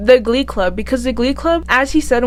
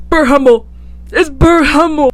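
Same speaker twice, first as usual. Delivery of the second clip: raised pitch, delighted recognition; excited recognition; 4 semitones higher than usual. Retold or imitated. Fan spots Bert Hummel's actor on something, excited recognition. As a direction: re-enact an excited spot of a favourite actor.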